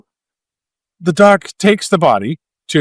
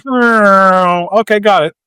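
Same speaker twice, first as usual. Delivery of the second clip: casual mock surgeon; 6 semitones higher, 5 dB louder, much slower than usual. Mock surgeon cutting head open.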